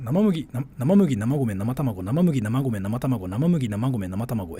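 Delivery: tongue twister in a pulled-back low voice. Shown as a demonstration. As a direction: drop the voice and rattle "生麦、生米、生卵". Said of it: "引くんすよ、声を。".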